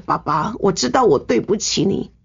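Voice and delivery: kneeling daughter-in-law begging for his blessing, high and tearful; tearful pleading. Retold or imitated. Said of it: "我就跪着一直哭".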